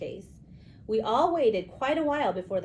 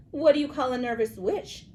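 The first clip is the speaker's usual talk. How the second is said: strange high voice; 5 semitones higher, 5 dB louder than usual. Acted. Pumpkin skeleton asks riddle.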